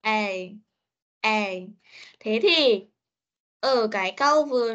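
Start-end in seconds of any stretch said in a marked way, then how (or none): 0.0-1.5 A drawn out as a clear diphthong; letter sound demo. Shown as a demonstration. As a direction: model the sound A for pupils. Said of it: "nó cũng đọc là A".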